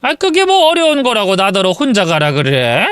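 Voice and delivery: complaining mother-in-law, lightly voiced; a hint of an aging Korean mother. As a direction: grumble like an old mother-in-law. One narrator voices mother-in-law.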